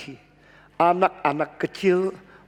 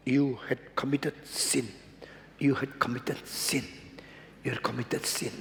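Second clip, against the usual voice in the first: accusing conscience; 5 semitones lower, 10 dB quieter than usual. Acted. Conscience whispering guilt.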